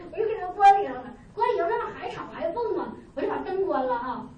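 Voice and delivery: words broken up by real laughter; laughing while talking. Real, not acted. Laughing as she tells how she shut the kids in. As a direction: giggle through the lines.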